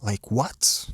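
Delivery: a mock whisper of disbelief; whispered what to himself. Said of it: "I was like".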